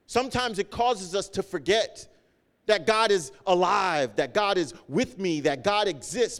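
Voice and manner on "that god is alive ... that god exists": preaching emphasis. Acted. Preaching builds.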